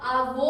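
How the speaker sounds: आवो with the final o drawn out; stretched vowel. Shown as a demonstration. Teacher recalling the stretched avó for students. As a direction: hold the last vowel of आवो long. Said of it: "इसने sound को stretch कर दिया था".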